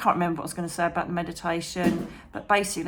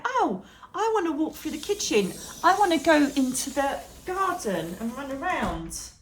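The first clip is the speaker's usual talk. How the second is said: voicing the dogs; 7 semitones higher than usual. Voicing the dogs' wishes.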